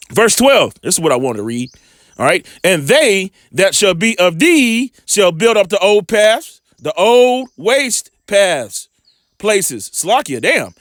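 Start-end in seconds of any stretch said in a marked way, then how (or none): 2.6-9.9 measured, slow Bible reading; preacher reading scripture aloud. Acted. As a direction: read the verse slowly like a preacher. Scripture read aloud in sermon.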